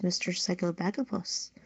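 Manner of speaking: normal talking voice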